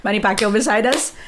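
put-on Filipino accent. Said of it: "That was the last accent of season one".

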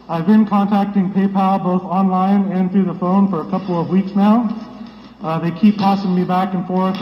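muffled behind a face mask; through a face mask. Real, not acted. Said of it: "I hope you can hear me through the mask".

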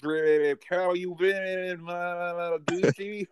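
slow, high, drawn-out whale call; comic sea-creature voice, high and slow; talking porpoise. Acted. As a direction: stretch every word like a whale song. Acting out a porpoise greeting.

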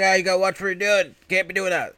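loud, high mock panic; retold freaked-out outburst. Shop owner after a customer falls, high mock freak-out. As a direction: scold loudly in an acted fluster. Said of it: "gets all freaked out".

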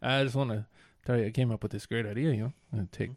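a hint of Norm's deadpan; Norm Macdonald. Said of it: "Norm Macdonald here".

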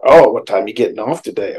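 mildly put-out question, loud opening "Oh"; bad-mood reading. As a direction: ask it as if taking offense. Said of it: "If they're in a bad mood".

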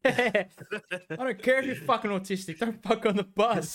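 hammed-up bus-stop rant; yelling crackhead. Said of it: "crackhead impression".

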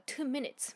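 「two」を強く高めに; 「two」 punched, falling after; stress on two. Retold or imitated. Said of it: "強調しますよね". (「two minutes」の「two」を強調)

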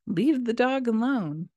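high, exasperated mock yell at husband; exasperated wife scolding her husband off the dog; retold angry yell. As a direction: snap at him to go help the kid, pitched well up. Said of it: "yell, and criticize again".

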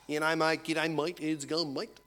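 badly faked London accent. London tradesman greeting the homeowner, badly faked London accent. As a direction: attempt a matey Pommy accent. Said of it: "It's a thirty-nine-year-old Pommy from London".

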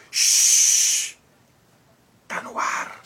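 shushing then whispering; librarian shushing whisper. Real, not acted. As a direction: hush them like a librarian. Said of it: "silêncio no estúdio".

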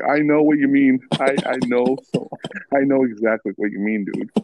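high, loud mock Cuban accent; hammed-up Cuban accent; fake Cuban accent. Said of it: "Your accent sounds ... your fake Cuban accent".

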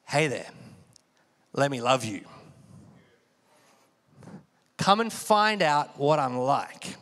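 low, slow, gentle invitation as God; a lightly voiced, tender God calling you in; God inviting. Preacher voices God inviting the listener, low and gentle. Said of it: "God's like".

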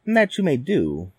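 sly wicked stepmother. Acted. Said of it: "said the stepmother".

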